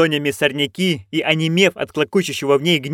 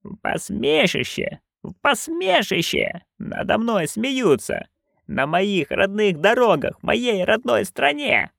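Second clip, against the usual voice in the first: slow, higher outraged tirade; raging shout; 7 semitones higher, 4 dB quieter, slower than usual. A narrator's reading. Furious witch raging about her humiliation, outraged slow tirade. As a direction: hurl it at the whole road. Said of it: "продолжала орать матушка".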